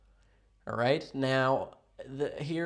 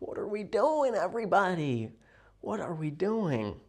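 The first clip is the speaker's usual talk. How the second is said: mock exasperated; 7 semitones higher, 4 dB louder than usual. Mock exasperated quote to friend.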